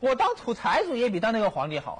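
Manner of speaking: high-pitched, indignant retort; acted worked-up emperor. Young emperor answers his chief minister, worked up. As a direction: play a young ruler all worked up. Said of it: "也，也兴奋了".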